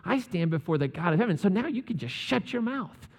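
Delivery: a hint of a lofty, indignant Gabriel; mock pompous rebuke, lightly voiced; playful put-down; indignant angel. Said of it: "gets a little indignant".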